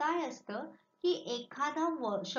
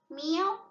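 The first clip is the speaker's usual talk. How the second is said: cat meow; 5 semitones higher, 5 dB louder than usual. Shown as a demonstration. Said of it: "which animal?".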